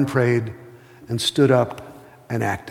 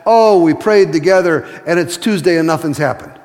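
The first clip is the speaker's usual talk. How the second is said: louder, breezy mock of a satisfied listener; mocking churchgoers; 3 semitones higher, 5 dB louder than usual. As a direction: lightly parody the congregation's easy praise. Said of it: "A lot of you guys go".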